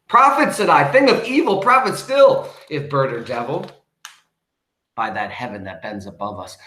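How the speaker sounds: high, loud, urgent imploring; impassioned plea. Acted. Speaker demands answers from the raven, high and loud. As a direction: cry out to the bird for an answer.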